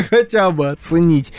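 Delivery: laughing through the words; real nervous giggle while talking. Real, not acted. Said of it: "Это нервный смех".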